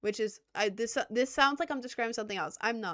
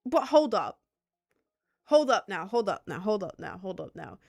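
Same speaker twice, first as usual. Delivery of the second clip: loud, emphatic objection fading out; mock-offended hold up that trails off; indignant hold up; 5 dB louder than usual. Real, not acted. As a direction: stop them mid-sentence, outraged. Reacting to backhanded compliment.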